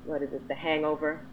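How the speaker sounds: normal talking voice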